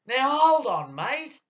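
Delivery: hammed-up, very high-pitched scream; screamed protest. Patient trying to halt the doctor's exam, screamed protest. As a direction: yelp it high, loud at the start. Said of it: "So I screamed".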